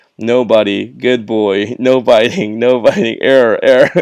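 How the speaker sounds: loud, mechanical robotic voice. Describing what people outside a shop would hear, in a robotic voice. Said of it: "hear a robotic voice from outside the shop saying".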